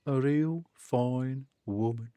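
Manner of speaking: slow, lightly voiced old man; a hint of unhurried old-timer; old man character. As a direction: draw it out like an old fellow. Same old man character again.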